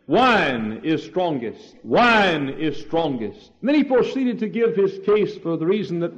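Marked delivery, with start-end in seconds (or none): 0.1-3.5 guard's proclamation. Retold or imitated. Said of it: "he said".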